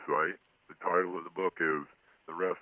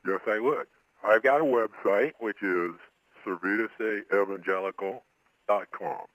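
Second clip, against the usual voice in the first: disguised voice. Real, not acted. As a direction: voice altered to hide identity. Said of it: "he is appearing here on this show with a disguised voice".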